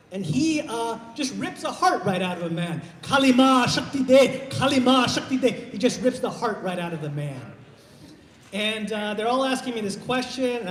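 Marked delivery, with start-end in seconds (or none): 3.0-5.5 loud, high chant of a movie villain priest; booming mock ritual incantation; thuggy priest. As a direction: chant it like a cult priest in a film. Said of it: "there's a famous scene with the thuggy priest".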